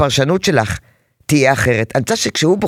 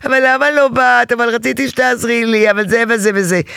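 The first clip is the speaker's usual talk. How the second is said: put-on whining child; 4 semitones higher than usual. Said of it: "מתבכיין".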